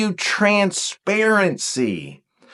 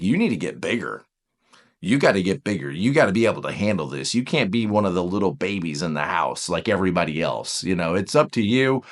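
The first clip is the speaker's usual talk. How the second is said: lower-pitched, lightly voiced parent; a hint of a parent telling a child to toughen up; stern grown-up message; 7 semitones lower than usual. Voicing a message given to a child.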